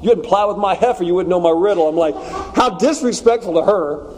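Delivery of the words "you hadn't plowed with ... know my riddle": relishing the line. Retold or imitated. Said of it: "Like, that is awesome".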